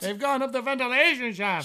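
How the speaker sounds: anxious, worried Nemoidian. Shown as a demonstration. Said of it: "she says a little bit more anxious than that".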